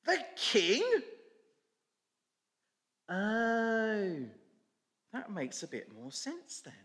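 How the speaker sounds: a donkey suddenly understanding; surprised donkey. Acted. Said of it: "says the donkey".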